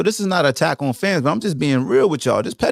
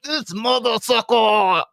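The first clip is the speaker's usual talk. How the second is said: mock fan sneer; 6 semitones higher, slower than usual. Fan voicing rival hatred.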